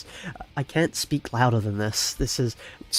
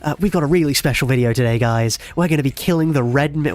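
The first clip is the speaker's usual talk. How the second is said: louder hyped YouTuber intro; over-exaggerated YouTuber; 3 semitones higher, 7 dB louder than usual. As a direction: overact a cheesy YouTuber greeting his viewers. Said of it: "Can I do an over-exaggerated YouTube?".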